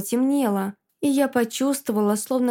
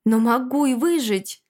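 hopeful; 2 semitones higher than usual. Acted. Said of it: "с надеждой произнесла я".

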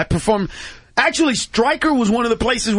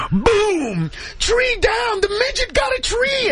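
much higher, hollered play-by-play of the hit; excited shout; slower than usual. Retold or imitated. Carlos reliving the tank shot, high excited shout. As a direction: shout it as it happens.

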